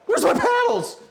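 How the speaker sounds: very high, loud frantic yell; panicked shriek. Real, not acted. Screaming because the mixer paddles have gone missing. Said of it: "Getting me worked up".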